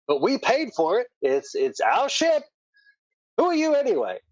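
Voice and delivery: high, protesting dock worker; indignant dock worker. Acted. Dock worker challenges interfering strangers, indignant and high. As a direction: push back indignantly, pitch leaping up.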